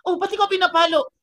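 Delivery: high, loud astonishment; startled child. Acted. Child seeing the adult being hit, startled and high. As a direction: act a kid bursting out in surprise.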